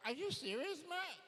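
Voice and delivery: high-pitched incredulous question; disbelieving child. Acted. Child answering parent's absurd question, incredulous.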